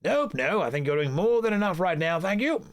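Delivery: high, gushing society friend; high flamboyant voice. Acted. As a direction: greet your friend, high and delighted. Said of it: "I'm gonna do the voices for every character".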